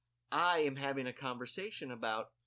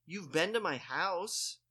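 insistent reminder; 5 semitones higher, slower than usual. Retold or imitated. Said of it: "her fourth one was".

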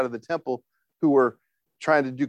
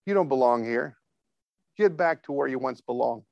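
gently coaxing; mild, caring reassurance; tender God; 2 semitones lower than usual. Retold or imitated. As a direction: send them back kindly. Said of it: "there's a tenderness in God's voice".

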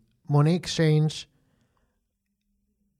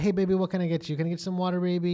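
mild Southern cashier imitation, pitched up; 5 semitones higher, much faster than usual. Imitating the endearing Southern Walgreens lady. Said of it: "You know, like".

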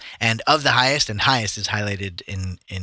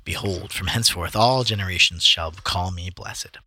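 measured, declamatory Bible reading; scripture reading; 2 semitones lower, 4 dB quieter than usual. A narrator's reading. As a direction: read it out like scripture. Reads scripture aloud.

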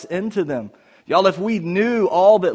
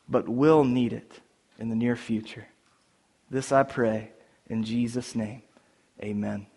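prayer. Acted. Pastor leads opening prayer.

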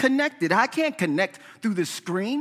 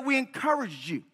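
softer gentle reading; tender encouraging tone; comforting call; 6 dB quieter than usual. Retold or imitated. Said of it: "like a comforting call".

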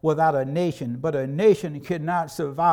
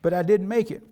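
son's excuse; 4 semitones higher, 4 dB louder than usual. Retold or imitated. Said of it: "He said".

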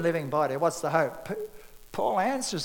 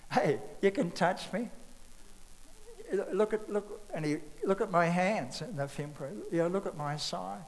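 tender Jesus; 5 dB quieter than usual. Retold or imitated. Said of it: "Just the tenderness of Jesus".

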